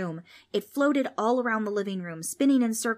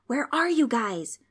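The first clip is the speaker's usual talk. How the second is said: higher-pitched, drawn-out call; 5 semitones higher, 4 dB louder than usual. A narrator's reading. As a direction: call out for lost friends in the dark. Girl calling friends in the dark.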